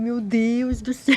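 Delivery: hammed-up shock at discovering her own harshness; shocked realization. Reader of the book realizing she is violent, mock dismay. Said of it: "eu falei".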